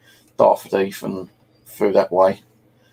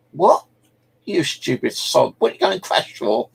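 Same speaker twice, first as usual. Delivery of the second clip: angry parents; 10 semitones higher than usual. Retold or imitated. Parents scolding after the crash.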